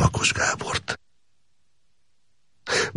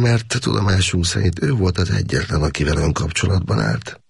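a hint of a higher, cool officer voice; lightly voiced lieutenant; 8 semitones higher than usual. A narrator's reading. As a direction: report it matter-of-factly as the officer.

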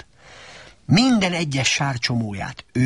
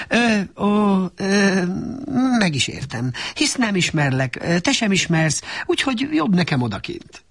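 hurt, holding back; 7 semitones higher than usual. A narrator's reading. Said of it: "Szipogásba próbálta temetni".

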